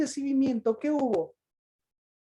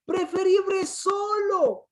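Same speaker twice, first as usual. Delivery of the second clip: sulky indignant voice; 5 semitones higher, slower than usual. Acted. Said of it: "¿Qué dice?".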